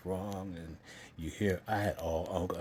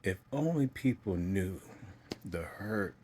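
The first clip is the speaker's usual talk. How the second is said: louder, pained and welling up; choked up emotional; 4 dB louder than usual. Real, not acted. Speaker on hurt people carry, choked up emotional. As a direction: push through rising emotion, real hurt. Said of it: "I'm getting emotional because".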